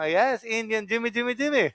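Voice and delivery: a hint of a Russian accent, sing-song. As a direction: chant जिमी as a Russian would. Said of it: "कोई Russian ने आपको पहचान लेगा".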